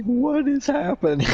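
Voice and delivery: high, bewildered panic; imitating a flustered friend; Dylan, shook. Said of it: "Dylan was so shook".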